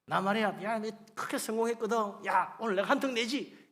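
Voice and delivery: lightly acted big-shot brag; mock boasting. Preacher imitates successful man offering a treat, mock boast. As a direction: play at showing off success. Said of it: "이러면서 자랑하는 거지".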